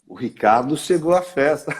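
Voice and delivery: insinuating demo read; different intonation. Shown as a demonstration. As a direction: lean on à, knowingly. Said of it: "se eu falar assim".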